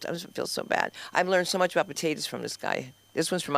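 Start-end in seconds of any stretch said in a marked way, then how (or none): 0.1-0.9 soft guilty murmur. Real, not acted. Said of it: "I feel so terrible".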